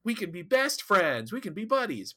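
lightly acted protest of innocence; mock pleading. Voicing a character pleading innocence.

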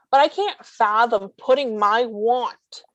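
want leaned on, drawn out; stress on want. Real, not acted. Telling people about service dogs, stress on want. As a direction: press the word want hard. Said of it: "emphasis on the word want".

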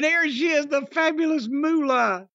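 playful show introduction; mock ring announcer. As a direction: present her like a pretend announcer.

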